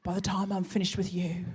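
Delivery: reading Dave's email. Retold or imitated. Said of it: "it just said this".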